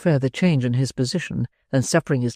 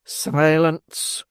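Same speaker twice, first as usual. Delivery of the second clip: stern cry. Acted. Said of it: "cried Mister Bumble sternly".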